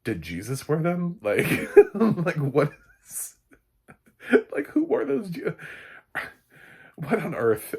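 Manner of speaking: high, loud laughing mockery; laughing disbelief. Real, not acted. Laughing in disbelief at the expensive jeans. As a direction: crack up at the absurd price.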